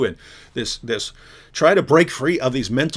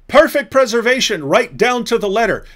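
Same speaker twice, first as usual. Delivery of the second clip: mocking the leaders; 5 semitones higher, 4 dB louder than usual. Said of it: "Your leaders tell you".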